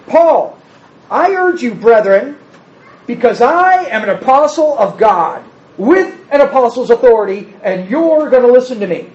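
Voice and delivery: a pretend Paul barking orders to the brethren; mock domineering apostle. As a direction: lay down the law like a mock tyrant. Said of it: "That's not what he says".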